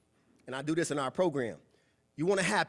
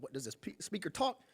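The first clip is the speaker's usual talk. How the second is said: whisper; 7 dB quieter than usual. Retold or imitated. Quoting Mike's question.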